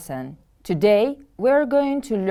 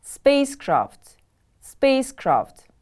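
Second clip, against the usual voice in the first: Spacecraft with SPACE high, falling on craft; stress on first syllable; 5 semitones higher than usual. Shown as a demonstration. Teacher modelling a new word for pupils, first-syllable stress. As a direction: stress "space" in "Spacecraft", higher, then drop. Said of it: "The stress is on the first syllable".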